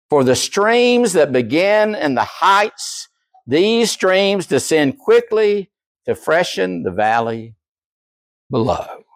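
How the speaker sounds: lingering, slowed-down quote; slow solemn reading. Retold or imitated. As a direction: let each word fall slowly.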